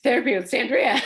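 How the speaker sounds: high, loud joke through a laugh; mock therapy announcement, laughing; host joking her story has become therapy, laughing; laughing at herself. Real, not acted. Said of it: "let's have therapy time".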